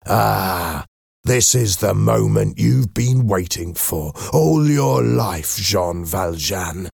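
drawn-out, mildly resigned address. A narrator's reading. Javert faces his old enemy's knife, resigned. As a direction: let it out with weary acceptance. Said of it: "looked at Valjean in resignation".

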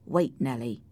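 low, gentle request. Acted. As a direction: soften and hold them back. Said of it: "in a more gentle voice".

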